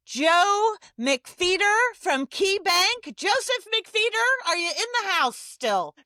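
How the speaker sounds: loud, high-pitched, drawn-out name announcement; announcer calling out. Real, not acted. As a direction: call the finalist up to the stage, loud and high. Announcing and calling up next finalist.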